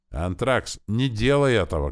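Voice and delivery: high, loud cry to stop him; shouting. A narrator's reading. Wife screams at her husband to stop, loud. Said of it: "кричала Лилайна".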